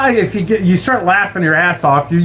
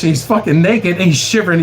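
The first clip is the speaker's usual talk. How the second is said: normal talking voice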